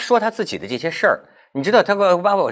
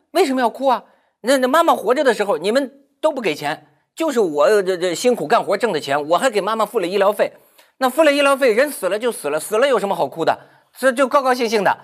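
mildly indignant, pitch jumping up on key lines; retold indignant retort; 2 semitones higher than usual. Woman answering brother who scolds her for not crying, mild indignation. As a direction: argue back as the wronged sister.

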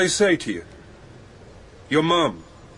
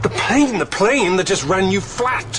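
shocked disbelief; 2 semitones higher than usual. Acted. Narrator telling Geoffrey the plane ran him over, stunned. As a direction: make him see what just happened.

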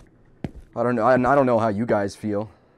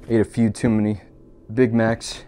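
unvoiced aside on the last words; sly whispered aside; whispered punchline. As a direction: drop to a whisper for the joke.

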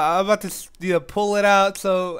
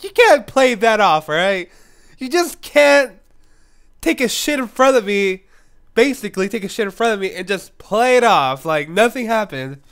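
indignant; 2 semitones higher, 5 dB louder than usual. Retold or imitated. Calling her out in shower.

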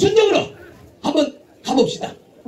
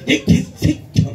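Gyeongsang rhythm curse; slower than usual. Retold or imitated. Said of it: "리듬을 타".

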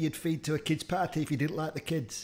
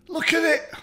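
disgusted; 11 semitones higher, 4 dB louder than usual. Real, not acted. Disgusted at the veiny tripe.

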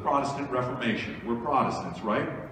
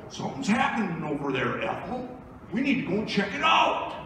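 higher, lightly voiced excited neighbour; nosy churchgoer; 6 semitones higher than usual. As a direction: play a curious neighbour tugging her friend's sleeve. Churchgoer nudging a friend.

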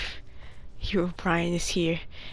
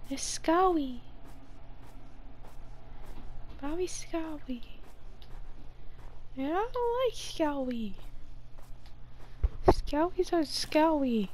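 babyish mock scared voice; 5 semitones higher, 8 dB quieter than usual. Baby talk about skeletons.

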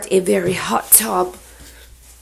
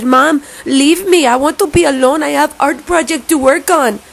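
higher, mock-dramatic accented plea; insistent plea; 5 semitones higher, 3 dB louder than usual. Telling mom to leave her alone, higher and insistent. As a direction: beg for space in a put-on accent. Acted quote pleading to mother.

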